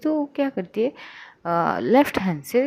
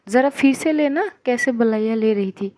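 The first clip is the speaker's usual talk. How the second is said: teasing demand; 3 semitones higher, 4 dB louder than usual. Acted. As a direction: needle her playfully to do it again. Sister teases, asks to repeat.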